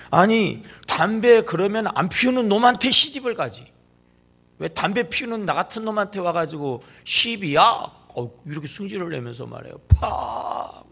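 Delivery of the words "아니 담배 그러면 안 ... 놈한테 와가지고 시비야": angry retort. Retold or imitated. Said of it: "막 화를 막 내면서".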